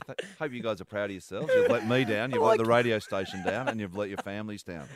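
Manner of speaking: disappointed parent. Pretend. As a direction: play the let-down dad. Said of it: "You sound like a disappointed parent".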